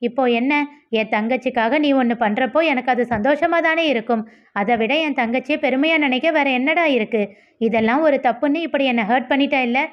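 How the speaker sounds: lightly heated, hurt reproach; understated indignation, pitch lifting toward the end; mild anger. Acted. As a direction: build a restrained rebuke to a friend. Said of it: "ஆதி இன்னும் கோபமாக".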